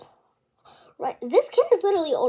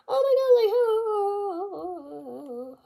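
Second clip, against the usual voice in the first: taunting giggle at her; mock laughing taunt; 7 semitones higher than usual. The boy laughing off her anger, mocking.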